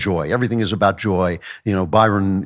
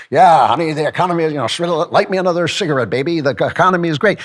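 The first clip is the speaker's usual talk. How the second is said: mock rich elite; 6 semitones higher, faster than usual. Mocking rich person smoking.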